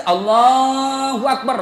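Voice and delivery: slow, stretched call of Allahu Akbar; slow imitated takbir call; drawn-out takbir. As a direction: intone it like a muezzin over a speaker. Imitating takbir over loudspeaker.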